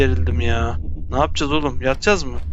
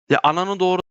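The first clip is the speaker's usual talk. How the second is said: angry swearing; 4 semitones higher than usual. Real, not acted. Controls invert, player swears.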